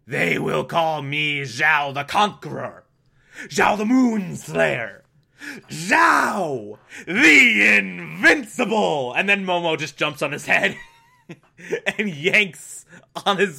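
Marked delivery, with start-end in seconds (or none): 0.0-9.1 mock-grand villain boast, stretching each title; bragging villain. Recapping Zhao for viewers, a playful mock-villain brag. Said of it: "Zhao's sort of bragging".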